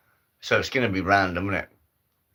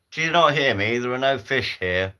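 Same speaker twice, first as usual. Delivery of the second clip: annoyed voice; 5 semitones higher, 5 dB louder than usual. Acted. Voice speaks up, annoyed.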